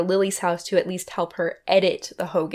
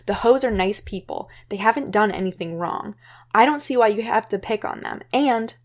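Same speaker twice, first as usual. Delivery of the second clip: retold exit speech; 2 semitones higher than usual. Mia tells Lily off before leaving, mildly angry. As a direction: tell her off and leave.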